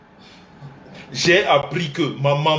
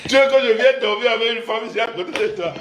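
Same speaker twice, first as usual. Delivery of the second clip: fast, higher, laughing retort; laughing mock challenge; 7 semitones higher, faster than usual. Son challenging his mother, fast and laughing. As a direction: fire it off laughing.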